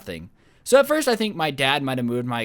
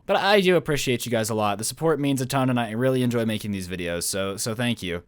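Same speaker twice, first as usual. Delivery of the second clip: lower, softening into a heartfelt thank-you; sincere thanks; 4 semitones lower than usual. Real, not acted. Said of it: "done being a little beta bitch".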